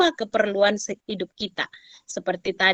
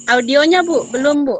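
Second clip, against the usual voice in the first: calling out; 5 semitones higher, 5 dB louder than usual. Real, not acted. Prompting muted participant online.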